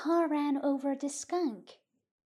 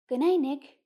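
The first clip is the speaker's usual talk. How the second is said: louder, called-out goodbye; raised-voice farewell; calling out; 7 dB louder than usual. A narrator's reading. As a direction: call a friendly good night across the barn. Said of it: "Joe Garner called".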